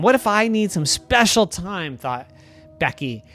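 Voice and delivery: a hoop fed up with its friend; a touch of sulky anger; angry hoop. Acted. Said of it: "I'm getting angry".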